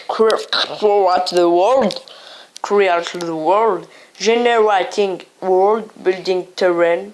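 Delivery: slow, deliberate English with a heavy Senegalese French accent; his Senegalese English accent. Real, not acted. Gamer reading English menu options to viewers, slow heavy Senegalese accent. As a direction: spell out the game's English menu words slowly in a thick Senegalese French accent. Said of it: "Voilà mon accent, euh, du Sénégal anglais".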